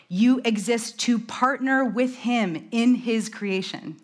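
deliberate, measured reading with weight on key words. Shown as a demonstration. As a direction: read it out slowly so it can sink in. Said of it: "read it again a little slower".

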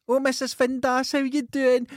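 high, loud friendly greeting; mum greeting a neighbour. Retold or imitated. Son imitates mum hailing a neighbour, high and loud. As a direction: call out to an old neighbour with delight.

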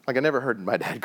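ordinary talk, nothing marked

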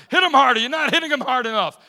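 retold grandmother shouting, high and loud; imitating a yell. Grandmother yells at mom to hit harder, loud shout. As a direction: bark it like the grandmother egging the beating on.

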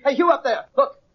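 high-pitched hail to someone far off; calling out. Acted. American hailing the savage up above, calling out. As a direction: call up to a stranger, pitched high.

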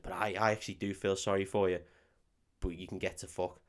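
mock-confidential put-down, kept low; quiet imitation of a whispered insult; retold whisper. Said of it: "leans next to her and starts whispering".

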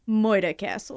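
Moida Castle, with the r dropped New York style; New York accent. Shown as a demonstration. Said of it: "say it right".

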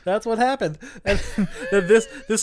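talking through laughter; laughing. Real, not acted. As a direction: laugh while speaking.

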